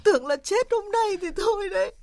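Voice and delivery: high, tearful wail; crying. Acted. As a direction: break into tears as you finish the tale. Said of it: "Không phải khóc nữa".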